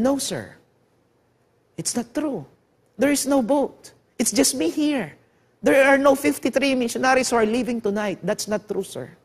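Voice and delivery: soft, fearful lie to the soldier, voice sinking away; frightened denial. Retold or imitated. Ravi lying to the soldiers out of fear, soft and frightened. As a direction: deny it quietly, scared of being caught. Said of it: "Natatakot si Ravi".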